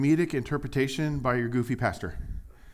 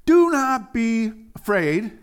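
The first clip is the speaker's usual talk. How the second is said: Jesus reassuring; 9 semitones higher, 8 dB louder, slower than usual. Acted. Pastor voices Jesus speaking.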